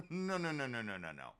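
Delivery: laughing out a string of nos; laughing refusal. Real, not acted. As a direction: laugh while you keep saying no.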